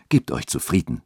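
a hint of an emotional sexton; moved. A narrator's reading. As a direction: settle her, a little moved. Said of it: "sagte dieser gerührt".

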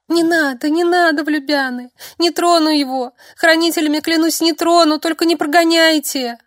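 put-on sobbing girl begging the men not to send her away; sobbing plea. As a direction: wail and swear through sobs. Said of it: "Она рыдала так горько".

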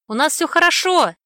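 put-on high, loud kid's shout; excited little brother. Little brother calling out to his sister, loud and eager. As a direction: yell it happily like a boy. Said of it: "услышала я голос Сашки".

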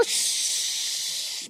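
sharp whispered shh; shushing. Retold or imitated. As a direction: hush her with a breathy shh. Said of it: "mi fa l'infermiera".

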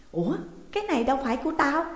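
quick, high puzzled remark; bewildered. A narrator's reading. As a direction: blurt it out, taken aback. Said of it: "Mụ ta ngơ ngác". (ngơ ngác, ngạc nhiên)

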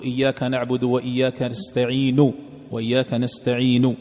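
a faint, whispered u on نستعين; recite, barely touching the last vowel; rawm stop. Shown as a demonstration. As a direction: give the final damma of نستعين only a third of its sound. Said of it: "تعطيها ثلث الصوت".

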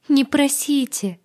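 high, loud tearful cry; sobbing. Acted. Agata at heroine's feet, high sobbing plea. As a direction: sob the plea out. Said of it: "всхлипывала она".

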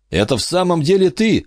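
man's voice. A narrator's reading. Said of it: "сказал мужчина".

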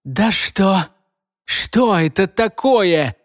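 high slow vexed squeal. Acted. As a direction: shriek in frustration. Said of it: "заверещал раздосадованный".

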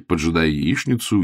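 ordinary delivery, nothing marked

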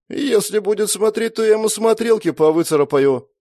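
threatening. A narrator's reading. Sister threatening her brother over peeking, menacing. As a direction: warn him off through narrowed eyes. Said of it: "с угрозой прошипела Света".

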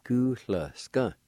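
"Gu, la, ska" with the e dropped; clipped variant. Shown as a demonstration. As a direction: leave the middle sound out of "Gu, la, ska". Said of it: "A sound being omitted".

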